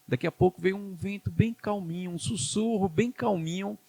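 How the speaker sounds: softened voice for a calm little breeze; gentle hush. Retold or imitated. Dramatizes gentle wind and whisper.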